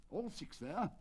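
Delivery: mildly anxious exclamation; agitated cry. Acted. The colonel fretting over his missing horse, lightly agitated. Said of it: "cried the colonel in great agitation".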